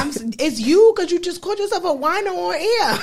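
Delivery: high, laughing while talking; laughing hard. Real, not acted. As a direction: laugh through every word. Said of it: "I'm crying".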